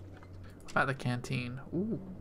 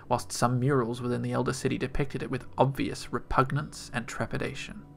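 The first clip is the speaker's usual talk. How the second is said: steady storytelling read; narration; 4 dB louder than usual. Acted. Reads the game's lore intro.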